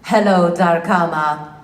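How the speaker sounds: measured, projected game-character hello; deliberate, performed hello; in-character greeting. Shown as a demonstration. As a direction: greet a fan in your character voice. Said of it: "in your voice could say hi".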